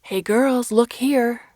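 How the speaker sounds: high, loud reporter call; pushy reporter yelling. A narrator's reading. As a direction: shout to grab their attention. Reporters calling out for attention.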